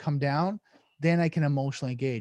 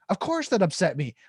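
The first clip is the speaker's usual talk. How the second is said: higher, indignant retort; triggered reaction; 4 semitones higher than usual. Acted. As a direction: act out a touchy snap back. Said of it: "now he keeps reacting".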